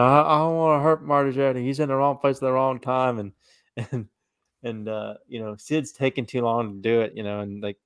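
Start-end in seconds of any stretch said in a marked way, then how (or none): 0.0-3.2 imitating Sid.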